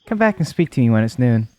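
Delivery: a hint of a sweet, caring mother; doting mother voice. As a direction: read it like a loving mom.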